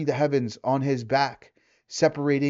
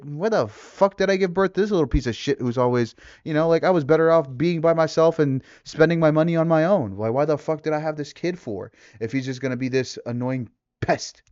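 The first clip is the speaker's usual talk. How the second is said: louder, exasperated fed-up father; imagined dad's rant; 3 semitones higher, 4 dB louder than usual. Retold or imitated. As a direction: vent like a worn-out dad at his kid. Imagined dad venting frustration.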